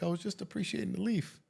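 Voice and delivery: a hint of his wife admiring the leaf; wife's soft reply.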